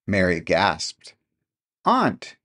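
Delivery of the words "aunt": astonished. A narrator's reading. Mary astonished.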